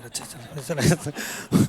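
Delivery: put-on a doomed boy whispering okay, let's go; resigned whisper. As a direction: son whispers his surrender to his father. Boy follows dad to beating.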